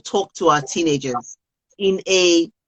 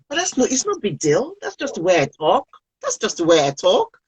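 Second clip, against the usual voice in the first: put-on shrugging teen; 2 semitones higher than usual. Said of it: "they will say".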